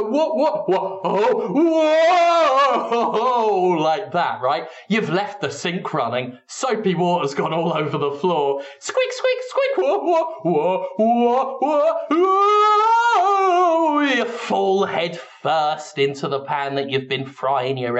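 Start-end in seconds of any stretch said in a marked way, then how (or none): 0.0-3.8 high, rising startled whoa; comic whoa. Retold or imitated. Pots fall on Jonathan, high startled slapstick yelp. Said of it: "you just go". 8.8-14.0 high squeaks and a long rising whoa; slapstick squeak and slip. Acted. Jonathan slips on soapy water, long sung cartoon whoa.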